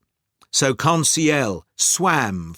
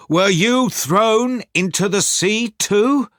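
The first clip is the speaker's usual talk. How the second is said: mildly astonished, higher-pitched question; surprised question; 6 semitones higher than usual. A narrator's reading. Rescued narrator to his companion, mildly surprised question. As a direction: ask with raised pitch and a touch of surprise.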